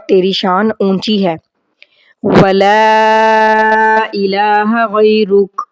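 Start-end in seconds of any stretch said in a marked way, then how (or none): 2.2-5.6 لا in ولا drawn out long. Shown as a demonstration. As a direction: stretch the لا of ولا, slowly. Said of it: "لا کے اوپر مد ہے تو اس کو زیادہ کھینچیں گے".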